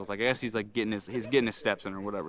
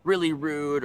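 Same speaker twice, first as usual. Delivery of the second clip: raised, slow, emphatic comic demo; loud and rude; 4 semitones higher, 5 dB louder, slower than usual. Shown as a demonstration. Vlogger showing viewers how brash Japanese comedy is, loud and rude. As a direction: push it loud to show brashness. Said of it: "really, really loud or really rude".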